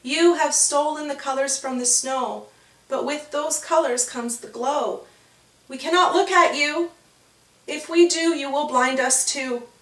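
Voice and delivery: frightened creatures. Acted. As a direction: warn them off, afraid. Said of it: "the other creatures said".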